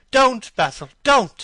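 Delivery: high, loud desperate cry; cried out. A narrator's reading. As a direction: stop him with a frantic high cry. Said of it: "he cried".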